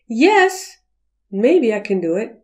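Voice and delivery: a yes that means maybe; hesitant yes. Shown as a demonstration. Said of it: "the word yes has about five meanings".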